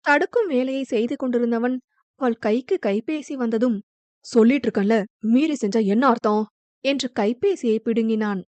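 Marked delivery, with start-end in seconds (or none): 4.2-6.4 sharp angry snap. Acted. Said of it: "இப்படி கத்துறீங்க".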